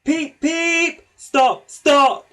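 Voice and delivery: very high, loud shrill peeps; whistling cry. A narrator's reading. Thomas whistling desperately for Gordon to stop. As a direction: shriek it like an engine whistle. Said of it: "whistled Thomas".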